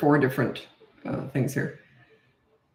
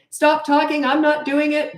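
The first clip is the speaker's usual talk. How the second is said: put-on high, louder bratty child voice; mock the kid yelling back; a child snapping back, high and loud; defiant child; 10 semitones higher, 3 dB louder than usual.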